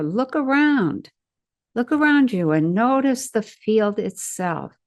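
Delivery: measured guide's voice, pausing between instructions; guided imagery. Real, not acted. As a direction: lead the listener step by step through an imagined scene. Leads guided imagery into forest.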